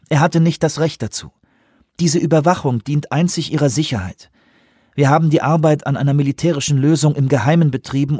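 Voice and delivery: lightly voiced commander defending secrecy; Lee, urgent. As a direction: press the point firmly, fast at first. Lee's voice in a read novel.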